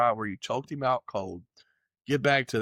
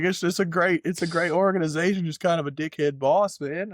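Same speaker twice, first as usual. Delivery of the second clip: raised, casual mock bro voice; imitated laid-back fighter; 5 semitones higher, 3 dB louder than usual. Fighter brushing off the boss, higher bro voice. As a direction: play the fighter shrugging it off.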